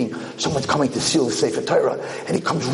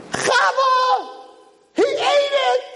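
husband bursting in with news, pitched up high; excited shout; slower than usual. Acted. Husband telling wife God ate the challah, thrilled. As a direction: call out to his wife in delight.

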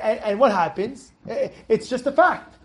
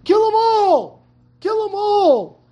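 Moshe Rabbeinu, angry; 4 semitones higher than usual. Retold or imitated. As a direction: scold them in disbelief, then order it forcefully. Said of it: "Moshe Rabbeinu gets angry at them".

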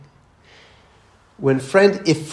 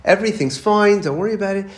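lightly voiced mom, pitched up; raised-pitch, mock-soothing reassurance; reassuring mother; 5 semitones higher than usual. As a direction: imitate a mother insisting all is fine. Mother soothing son after bad dream.

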